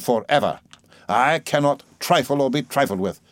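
a hint of a cold, stern stepfather; measured, unbending warning to the aunt; stern Murdstone. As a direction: lay down terms, lightly voiced.

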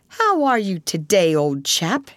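lightly cheerful rat voice; breezy friendly greeting. Acted. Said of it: "inquired the rat cheerfully".

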